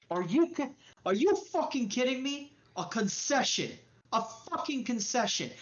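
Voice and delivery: high, escalating furious yelling; an enraged gangster tearing into Lucky, spitting every word; furious rant. Acted. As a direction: rage at the offered concession, voice climbing. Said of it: "You kinda hear".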